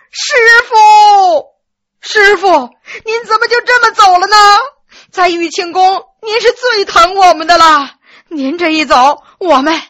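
high, loud wailing with sobs; crying out loud. A narrator's reading. Disciples wailing over their dead teacher, loud crying. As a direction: wail to the heavens, overplayed grief. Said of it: "哭天抢地的大叫一声".

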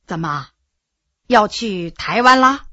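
low, soft opening question; lightly voiced ailing veteran asking; ailing old general.

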